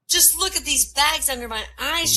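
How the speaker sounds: high, loud mock scream; screaming lady. Furious lady screams at the doctor, high and loud. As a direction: shriek it at the doctor. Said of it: "she screams".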